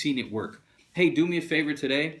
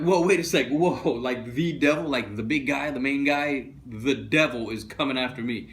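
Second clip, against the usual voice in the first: mock alarm. Peter alarmed at news.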